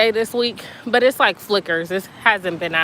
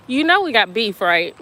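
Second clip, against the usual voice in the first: louder mock beef call-out; loud playful teasing; 6 dB louder than usual. Real, not acted. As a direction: tease the friend loudly. Teasing a viewer.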